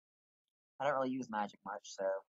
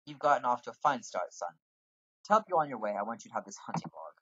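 guildmaster voice. Acted. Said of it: "I forget what accent I give people".

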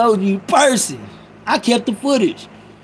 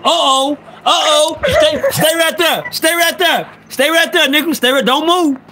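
higher, excited calling out to him; excited callout; 5 semitones higher than usual. Real, not acted. Streamer spotting his friend joining the live, excited calling. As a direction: call out to your friend, thrilled to see him.

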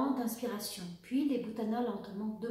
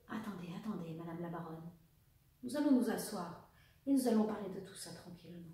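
calm reassurance; 3 semitones lower, 3 dB quieter than usual. Acted. Officer calms the furious baroness.

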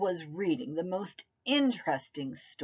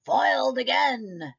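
cute germ voice; 5 semitones higher, 4 dB louder than usual. Acted. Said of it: "shouted the germ".

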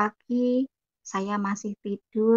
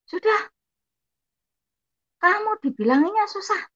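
imitated high, loud ultimatum; retold scolding, high and forceful; angry outburst; 7 semitones higher, 6 dB louder than usual. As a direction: act out a furious sibling throwing you out. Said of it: "akhirnya marah-marah adik saya".

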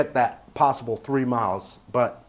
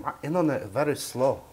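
mock Asian accent; 3 dB quieter than usual. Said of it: "I don't know why I went Asian".

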